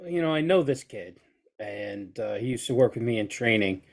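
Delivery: ordinary talk, nothing marked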